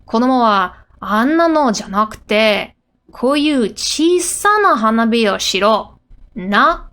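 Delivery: acted safety lecture in Japanese; mild, emphatic telling-off; scolding. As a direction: lay down the rule to a child, firmly. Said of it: "She's getting scolded right now".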